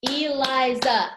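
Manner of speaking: ELIZA in three slow, even beats; syllable by syllable. Shown as a demonstration. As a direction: count out E, LI, ZA in ELIZA. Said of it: "has three syllables".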